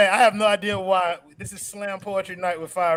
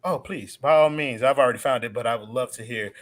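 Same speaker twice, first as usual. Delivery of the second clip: mock sultry; 8 semitones lower than usual. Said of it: "sultry voice".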